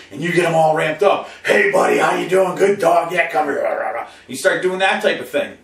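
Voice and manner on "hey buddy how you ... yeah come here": loud, hyped-up greeting; excited greeting. Retold or imitated. Owner home at night, hyping dog up loudly. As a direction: rev the dog up. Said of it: "he's all excited to see you".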